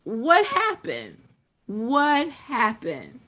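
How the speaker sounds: slow, drawn-out bewilderment; acted dismay. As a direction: stretch it out in mock disbelief. Acts out disillusioned partner.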